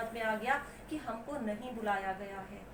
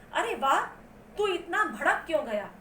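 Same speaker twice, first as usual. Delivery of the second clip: mild astonishment; 5 semitones higher than usual. Retold or imitated. Kudo Ram reacting to the boy's flare-up, astonished. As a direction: read with raised pitch and surprise. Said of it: "कूड़ो Ram ने हैरानी से कहा".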